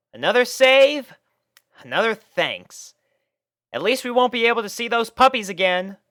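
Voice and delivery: high, fast satisfied boast; smug Rainbow. A narrator's reading. Rainbow bragging to Tank about the save. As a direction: brag as you relax.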